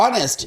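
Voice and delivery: "অনেস্ট" starting straight on the vowel, no H; silent H. Shown as a demonstration. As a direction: drop the H in "অনেস্ট". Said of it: "এইচ এর উচ্চারণ নেই". ("অনেস্ট"-এ এইচ অনুচ্চারিত)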